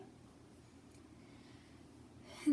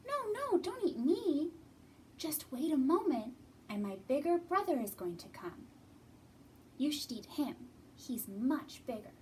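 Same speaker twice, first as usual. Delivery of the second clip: high, pleading goat voice; lightly voiced frightened little goat; scared little goat; 4 semitones higher than usual. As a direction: beg the troll in a tiny voice. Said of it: "the littlest billy goat gruff".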